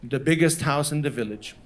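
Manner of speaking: low, measured boast of a proud father. Retold or imitated. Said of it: "he was so proud".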